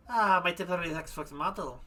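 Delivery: put-on madame explaining, in light German accent; lightly put-on German accent. Madame explains her temporary model, German accent. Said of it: "gonna freaking go back into German again".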